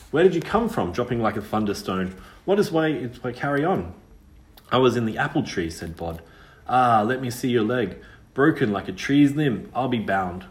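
a lightly voiced country girl, curious; old rustic girl, surprised and teasing; lightly voiced ghost girl, brisk and wary. Witch girl Liza's voice.

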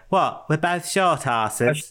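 slow, lightly voiced Beckham drawl; a hint of Beckham, stretched out; mock footballer voice; David Beckham impression. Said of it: "in his David Beckham".

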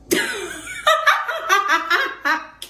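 loud, high laughter at her own joke; hearty laugh. Real, not acted. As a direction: burst out laughing.

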